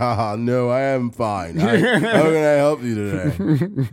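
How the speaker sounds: put-on slurred, drunk-sounding voice. Retelling the coworker denying drinking to a customer, imitating his drunk-sounding voice. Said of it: "exactly how that motherfucker sounded".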